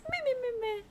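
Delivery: high, bored meh meh; dismissive meh. Real, not acted. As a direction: shrug it off, unimpressed. Dismissing the weapon colour.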